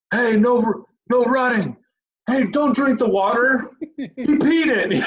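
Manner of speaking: put-on high, loud, laughing foreign accent; Lars impression. Friend imitates Lars yelling at kids in a high foreign accent. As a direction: bark the pool rules like a goofy lifeguard. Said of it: "he's like".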